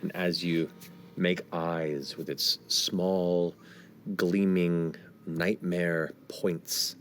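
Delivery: slow, measured scene setting; game master narration. A narrator's reading. Game master reveals a being on the hill, slow suspenseful narration. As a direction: draw the words out, pausing for suspense.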